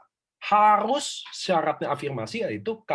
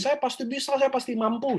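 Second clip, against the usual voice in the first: higher-pitched chanted affirmation; raised, rhythmic self-affirmation demo; example affirmation; 8 semitones higher than usual. Shown as a demonstration. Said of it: "contoh saya mau ngomong nih".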